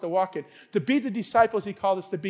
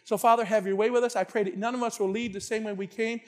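closing prayer. Real, not acted. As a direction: pray aloud for the congregation, phrase by phrase.

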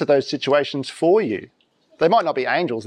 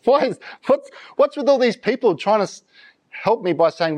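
exasperated; 6 semitones higher than usual. Retold or imitated. Voicing Mary's exasperation.

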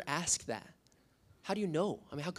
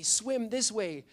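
slow, higher call across the water; 6 semitones higher, much slower than usual. Retold or imitated. Pastor calls a swimming student toward the shore, slow and higher. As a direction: stretch it out to reach someone far away. Calling to boy in riptide.

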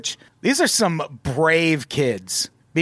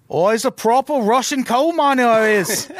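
high, hammed-up British working-man accent; 7 semitones higher, 4 dB louder than usual. Podcaster playing a Russian coal miner as a Brit, comic British accent. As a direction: put on a broad British accent. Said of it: "I won't do any more accents".

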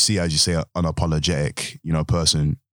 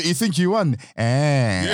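high-pitched mock promo in a Nigerian accent; imitated Nigerian accent; 9 semitones higher, slower than usual. Wrestling fan imitating a promo taunt, high Nigerian accent.

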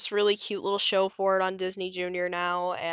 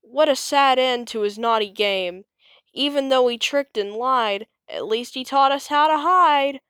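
friends mourning; 5 semitones higher, 6 dB louder than usual. A narrator's reading. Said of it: "Bonehead's friends came running back".

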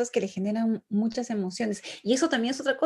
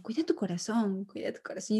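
soft reminder; 6 dB quieter than usual. Shown as a demonstration. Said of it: "Le digo".

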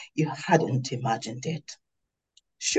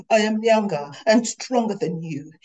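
loud; 4 semitones higher than usual. Acted. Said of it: "loud for his benefit".

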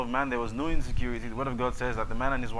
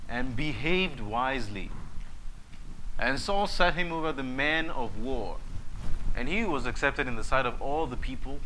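scripture reading. Acted. Reading First Samuel aloud.

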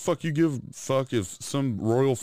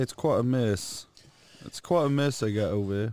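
mock British accent. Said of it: "He said".

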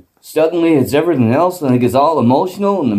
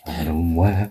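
deep mock voice; 8 semitones lower, 6 dB quieter, slower than usual. Third, deep take of name.

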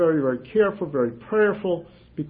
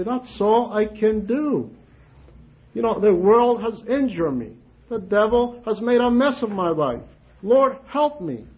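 humble prayer; 4 semitones higher than usual. Shown as a demonstration. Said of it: "simply humble ourselves and say".

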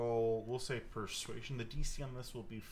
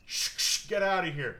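shh whispered, then a louder, higher get outta here; shushing local; 7 semitones higher, 8 dB louder than usual. Acted. Dim local hushes the party, then shoos them, louder. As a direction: hush then shoo them off. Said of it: "hear someone go".

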